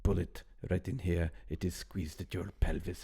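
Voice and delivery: mock French villain accent, lightly done; a hint of a French baddie; playful bad French accent. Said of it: "I was actually trying to do a French accent".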